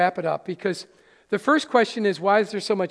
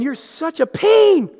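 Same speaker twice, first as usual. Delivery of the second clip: mock annoyance; 8 semitones higher, 7 dB louder, slower than usual. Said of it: "and I'm thinking".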